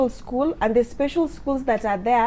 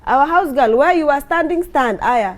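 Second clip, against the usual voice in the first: imitating her bossy daughter; 3 semitones higher, 4 dB louder than usual. Daughter ordering everyone around.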